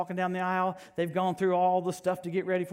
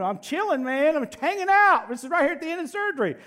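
mock a careless surgeon; lazy surgeon; 10 semitones higher, 6 dB louder than usual. Surgeon slacking off at the end, mock laid-back.

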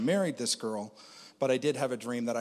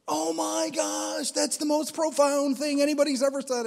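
mock gushing admirer; 6 dB louder than usual. Mocking people who gushed over his offhand advice, swooning high voice. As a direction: ham up a starstruck admirer hanging on every word.

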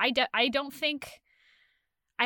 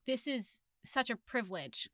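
awed whisper; 8 dB quieter than usual. Retold or imitated. Quoting her awed reading thought.

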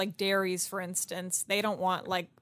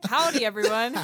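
jokey greeting; 3 semitones higher, 7 dB louder than usual. Pretend. Tries out another joke catchphrase.

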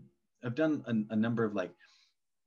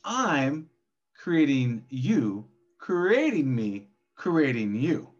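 slow, louder drawn-out call; cave echo yell; 2 semitones higher, 5 dB louder, much slower than usual. Acted. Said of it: "yelling into a cave and it's the echo".

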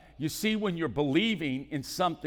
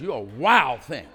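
wife teasing; 9 dB louder than usual. Retold or imitated. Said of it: "that's what my wife says".

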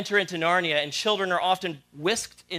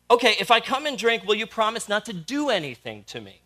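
put-on nervous girl; 6 semitones higher, 5 dB louder than usual. A narrator's reading. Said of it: "said the lion".

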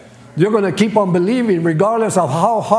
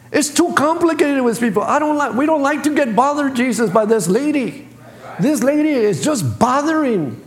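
whiny complaining disciples; 5 semitones higher than usual. Retold or imitated.

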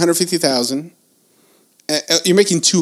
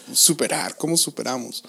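English sliding into Spanish; mixing English and Spanish mid-question; switching between two languages; 7 dB quieter than usual. Real, not acted. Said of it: "what's the word in English".

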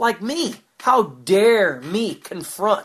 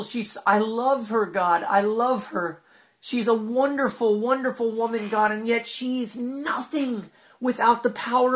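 heartfelt prayer. Acted. Earnest spoken prayer to God.

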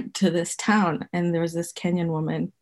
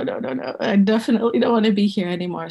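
panicked; 2 semitones higher, faster than usual. Retold or imitated. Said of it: "And I was like".

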